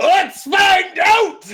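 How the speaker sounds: full-throated, very loud, high-pitched yell. Voicing an innkeeper raising a cleaver with a toothy grin: innkeeper shouting. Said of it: "the innkeeper just shouts".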